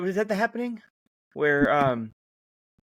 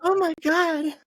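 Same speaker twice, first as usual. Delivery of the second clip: high feminine voice, much higher; light girly voice; chick voice; 5 dB louder, slower than usual. Shown as a demonstration. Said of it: "I like your chick voice".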